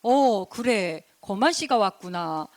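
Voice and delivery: slow, drawn-out royal greeting; lightly voiced stately king; storybook king. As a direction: receive a guest slowly, as a king. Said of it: "그랬더니 임금님께서".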